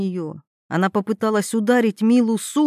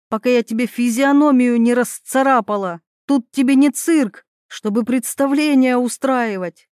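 angry threats; 3 semitones higher than usual. Acted. Throws Veronika out.

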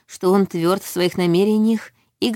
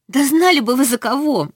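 higher, louder burst of despair; desperate exclamation; 8 semitones higher, 4 dB louder than usual. A narrator's reading. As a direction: cry it out in desperation. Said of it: "в отчаянии воскликнула я".

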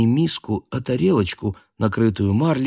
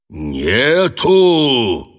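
loud roaring cook, slightly raised; menacing bass roar; 5 semitones higher, 5 dB louder than usual. A narrator's reading. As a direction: roar it back threateningly. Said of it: "грозным басом взревел повар". (грозный рёв повара)

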